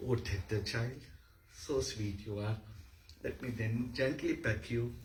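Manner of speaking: put-on soft, tender cooing to a child; motherly love. Shown as a demonstration. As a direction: dote gently on a little one, quietly. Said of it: "A motherly love towards a child".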